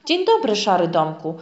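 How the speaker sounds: usual speaking voice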